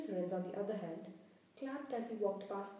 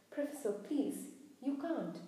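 higher, mildly pleading protest; 3 semitones higher than usual. Acted. Pupil begging professor over lost points, pleading. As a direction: plead with the teacher.

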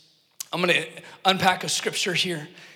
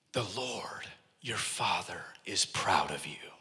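soft whispered low prophecy, slow at the end; hushed whisper; 12 semitones lower, 10 dB quieter, slower than usual. Retold or imitated. English preacher praying over young Adam, whispered softly. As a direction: breathe it out like a secret blessing.

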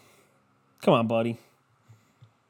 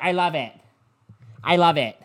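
gushing wife; 4 semitones higher than usual. Retold or imitated. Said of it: "and she's like".

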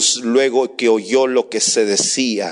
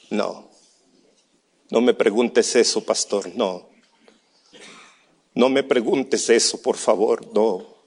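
tearful pleading. Retold or imitated. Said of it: "se le llenaron sus ojos de lágrimas".

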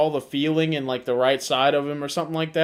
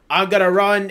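imitated Hungarian accent. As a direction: put on a Hungarian friend's accent. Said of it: "so this is his accent".

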